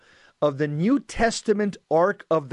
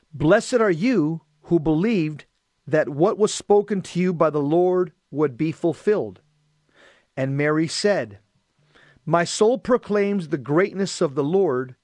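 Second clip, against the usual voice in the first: measured, projected scripture reading; solemn read-aloud with pauses between phrases; gospel reading. Acted. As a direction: proclaim the reading to a congregation. Reads and concludes the gospel.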